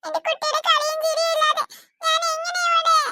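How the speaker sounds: a mother crying for her daughter; tearful lament. Acted. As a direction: voice breaking with grief over a lost child. Mother grieves her lost child.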